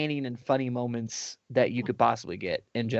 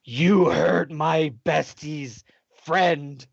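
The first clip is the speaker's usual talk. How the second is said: put-on slow menacing girl; 3 dB louder, much slower than usual. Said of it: "she's like".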